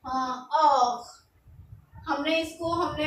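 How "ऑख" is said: ऑख said slowly with a throaty r, the h silent; ऑख, no h, r from the back of the throat; French word heure. Shown as a demonstration. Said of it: "तो इसको बोलेंगे हम". (French उच्चारण में ऑख, H साइलेंट)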